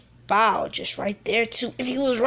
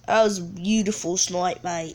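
put-on British accent; 2 semitones lower than usual. Gamer admiring own snipe, British accent. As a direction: play it as a British bloke. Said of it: "talking in a British accent".

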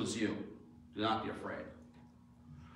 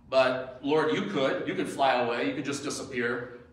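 loud, insistent plea, acted out; acting out Peter's appeal; urgent plea; 5 dB louder than usual. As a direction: urge him away, voice lifted. Voicing Peter urging Lord to leave.

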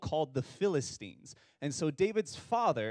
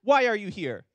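sister's line; 4 semitones higher, 5 dB louder than usual. Shown as a demonstration. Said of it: "one sister said".

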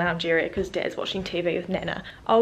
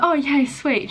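mock excited; 5 semitones higher, slower than usual. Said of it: "I'm like".

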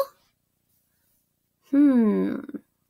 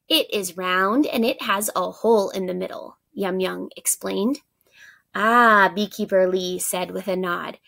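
put-on lively read-aloud for young pupils; story narration. A narrator's reading. Teacher reading a story to her class, animated storytelling. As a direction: read the picture book expressively to the class.

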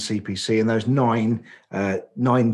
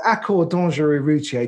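French accent; 4 semitones higher, 4 dB louder than usual. Shown as a demonstration. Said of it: "forgive my appalling French accent".

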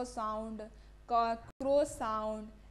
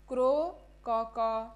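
crow caw; 2 semitones lower, 6 dB louder, slower than usual. Retold or imitated. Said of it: "different type of voice or sound".

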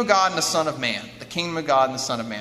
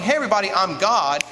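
slightly raised mock announcement; mock shout; 2 semitones higher, 4 dB louder than usual. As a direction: imitate calling out to a crowd, half-hearted. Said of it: "go around shouting".

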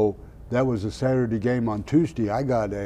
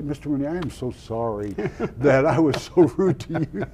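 laughing apology; 4 semitones higher than usual. Retold or imitated.

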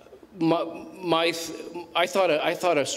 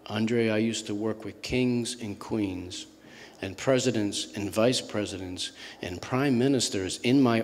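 put-on thick Iranian accent; 5 semitones lower, 4 dB quieter than usual. Weary Iranian colonel confiding in Andre in the elevator, thick accent. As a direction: imitate a tired man's thick Iranian accent, unhurried. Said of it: "in his very thick accent".

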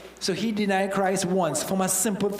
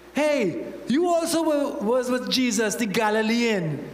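put-on higher, sharp accusing girl's voice; a scrawny servant girl pointing out Peter; little spinny voice; 4 semitones higher than usual. Preacher voicing the servant girl accusing Peter, high and shrill. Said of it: "little spinny voice".

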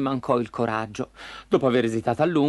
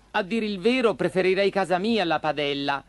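higher puppet voice; demurring puppet; 5 semitones higher than usual. Acted. Pinocchio declining the frying pan, mildly demurring. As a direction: decline politely in the puppet's lighter voice.

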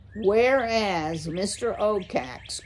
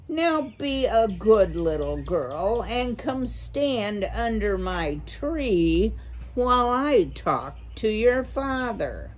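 owl giving orders; 4 semitones higher than usual. Acted. An owl ordering a mouse under his tree, menacing command. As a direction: lure her closer with false sweetness.

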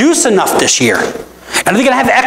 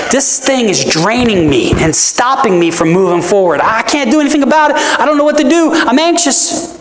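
anxious spiral; 3 semitones higher than usual. Retold or imitated. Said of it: "Worry is".

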